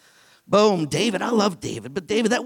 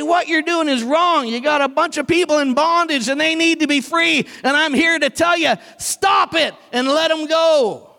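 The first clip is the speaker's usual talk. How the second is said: bold demand; 5 semitones higher, 3 dB louder than usual. Acted. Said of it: "and say".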